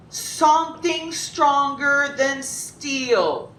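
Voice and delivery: high, drawn-out royal demand; imposing emperor. Acted. Emperor setting the carpenter his third task, slow grand demand. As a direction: stretch each word into a grand decree.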